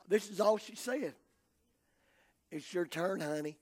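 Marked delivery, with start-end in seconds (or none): 2.5-3.6 tag. Retold or imitated. Little girl's gentle line retold.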